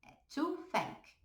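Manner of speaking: "to thank" said slowly, no S at the end; slow down and stop on the k; no final S. Shown as a demonstration. Teacher stresses to thank has no final S. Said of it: "repara que não tem o S".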